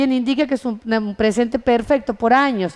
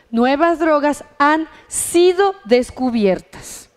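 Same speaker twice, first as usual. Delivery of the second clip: slow, deliberate translation for a class; measured teacher's example reading; slow model translation; slower than usual. Shown as a demonstration. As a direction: spell out the translation word by word.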